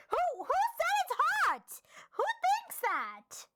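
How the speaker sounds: high, loud incredulous squeal; outraged disbelief. Real, not acted. Player objecting to a hot alien neighbour, high incredulous outburst. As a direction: protest shrilly, stretching the last question.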